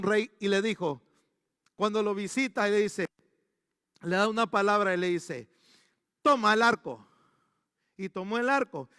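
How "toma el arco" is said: prophet's command. Retold or imitated.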